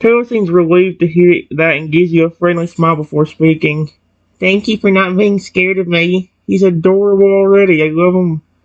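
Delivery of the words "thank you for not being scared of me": put-on little kid voice. Voicing Taylor after he smiles at the listener, in a little kid voice. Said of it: "same little kid voice I always give him".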